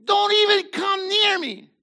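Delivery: high, loud furious order; angry shout. Retold or imitated. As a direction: drive everyone out of the room. Joseph sends everybody away.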